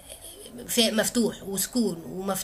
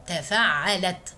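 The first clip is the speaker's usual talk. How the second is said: slow spelled-out weight; 2 semitones lower, much slower than usual. Shown as a demonstration. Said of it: "هنقول التشكيل".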